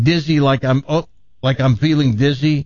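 "Dizzy" said with a D at the start; mistaken pronunciation. Shown as a demonstration. Host checks the rapper's name, mistakenly saying "Dizzy" with D. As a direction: sound it like feeling "dizzy". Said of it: "make sure I got this right".

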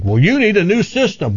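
a touch of a slick contractor; mock salesman. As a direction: lightly voice a pushy salesman. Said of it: "telling you you need something".

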